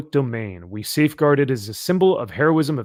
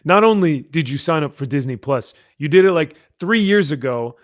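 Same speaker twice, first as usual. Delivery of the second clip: put-on New York accent; 2 semitones higher, 3 dB louder than usual. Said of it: "I don't know why I'm a New Yorker now".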